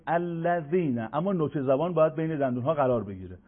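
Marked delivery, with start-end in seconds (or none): 0.1-1.1 "الذین" with a gentle, unforced dh; light English "th" of "this" in "الذین"; soft dhal. Shown as a demonstration. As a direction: say "الذین" softly tongued between the teeth, no pressure.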